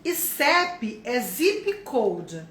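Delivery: slow, deliberate statement; slow explanation. Shown as a demonstration. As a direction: spell the point out slowly. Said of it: "tá?".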